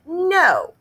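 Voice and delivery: put-on a little kid's flat refusal; toddler refusing. Fudge refusing the saddle shoes, high toddler no.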